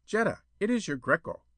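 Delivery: high, put-on lover's call; coaxing suitor call. A narrator's reading. Suitor announcing himself beneath her window, coaxing. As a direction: lure her out by name.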